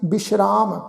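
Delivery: ਬਿਸ਼ਰਾਮ said with a clear sh, not s; ਬਿਸ਼ਰਾਮ, bish-raam with sh; ਬਿਸ਼ਰਾਮ with the dotted sassa as sh; sh sound. Shown as a demonstration. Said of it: "ਸੱਸੇ ਪੈਰ ਬਿੰਦੀ ਲਗਾ ਕੇ".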